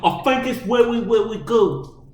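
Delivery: high, loud, drawn-out mock Cockney; exaggerated slow Cockney caricature; Cockney accent. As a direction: answer in a hammed-up Cockney holler. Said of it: "on that accent".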